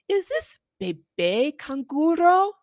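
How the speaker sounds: mock-innocent quiz question; playful teasing question. Shown as a demonstration. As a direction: tease the child with a silly guess. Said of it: "point to the brown kangaroo and say".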